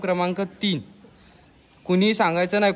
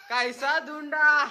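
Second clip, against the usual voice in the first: laughing gloat; 5 semitones higher, 4 dB quieter, much slower than usual. Real, not acted. Gloating after finding them.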